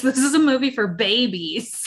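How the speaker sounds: bratty cartoon toddler voice, laughing; Angelica Pickles voice. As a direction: lightly mimic a spoiled Rugrats kid. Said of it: "You sound like Angelica Pickles".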